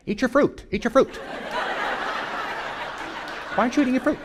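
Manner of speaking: wicked queen softly urging Snow White to eat the apple; coaxing witch. Pretend. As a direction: lure her in gently like the wicked queen.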